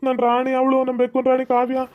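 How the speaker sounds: mild mock crying; lightly acted tearful pleading; acted tearful complaint. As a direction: explain the loss in a weepy, upset whine. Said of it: "ಅದಕ್ಕೆ ಬೇಜಾರಾಗಿ ಅಳ್ತವ್ನಿ".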